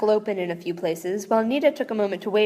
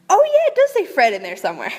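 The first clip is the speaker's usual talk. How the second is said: laughing; 6 semitones higher, 7 dB louder, faster than usual. Real, not acted. Reader laughs at the text.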